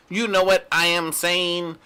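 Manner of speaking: stiff robotic delivery. Retold or imitated. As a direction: say it like a robot acting hip. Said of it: "sounds literally like a robot".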